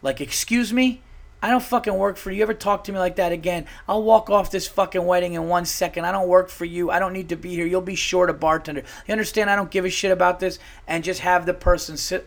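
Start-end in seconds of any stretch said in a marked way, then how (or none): 0.2-10.6 higher-pitched mock confrontation; indignant imitation of a fed-up bartender; acted telling-off. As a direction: act out putting a rude guest in their place. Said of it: "such a verbal fucking shock to the face".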